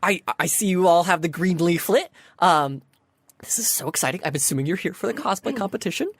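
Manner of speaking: lightly voiced chirpy event helper; perky sphinx greeter. Sphinx welcoming cosplay contestants, lightly perky. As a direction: welcome them with bubbly eagerness. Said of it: "goes back to a perky self".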